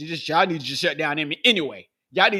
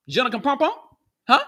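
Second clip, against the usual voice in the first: mock French; 6 semitones higher, faster than usual. Mocking France.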